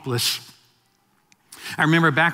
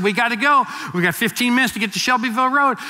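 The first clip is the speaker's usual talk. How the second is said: eager wife; 6 semitones higher, faster than usual. Retold or imitated. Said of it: "She said".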